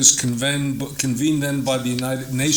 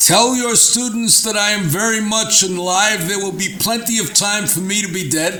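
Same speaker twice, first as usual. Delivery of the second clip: put-on strong Polish accent, raised pitch; 7 semitones higher than usual. A professor retells a phone call from Karski, doing Karski's heavy Polish accent. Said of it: "in his uh, uh, heavy Polish accent".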